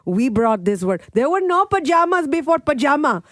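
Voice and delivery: put-on dad lecturing the kids in the carpool, fired up. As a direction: rant proudly about the Indian word. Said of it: "He was so fired up about it".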